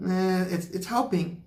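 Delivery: high, put-on squeak on it's helping; mock squeaky voice. Mocking viewers who want instant healing, in a high squeak. Mocks quick-fix healing, then repeats.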